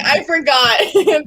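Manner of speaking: mock diva. Host mocking her own temperature blunder, hammed-up diva voice. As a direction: play the spoiled diva for a laugh. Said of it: "Back to being a diva".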